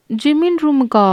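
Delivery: high, startled question; jaw-dropped disbelief; gaping surprise. A narrator's reading. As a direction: blurt it back, pitch leaping up. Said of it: "அப்படின்னு வாயை பழக்கிறா".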